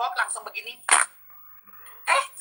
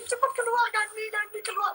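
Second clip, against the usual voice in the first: retold urgent order; 8 semitones higher, 3 dB quieter than usual. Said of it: "aku bilang gitu".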